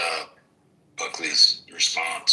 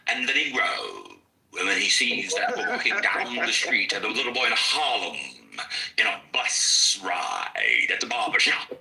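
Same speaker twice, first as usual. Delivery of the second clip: put-on Baldwin's transatlantic accent; 2 semitones higher than usual. Teacher mocks Baldwin's mid-Atlantic accent for the class, lightly imitated. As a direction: lightly put on Baldwin's fake-British lilt. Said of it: "You think that's how Jan".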